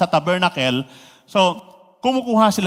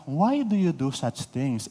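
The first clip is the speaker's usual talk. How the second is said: mild reading; 3 semitones lower, 6 dB quieter than usual. Retold or imitated. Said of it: "Sabi niya".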